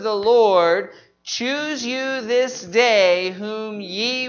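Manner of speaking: slow, measured memory-verse reading; scripture recitation. Real, not acted. Reciting this week's verse to the congregation, slow scripture recitation. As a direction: recite it deliberately, holding the key words.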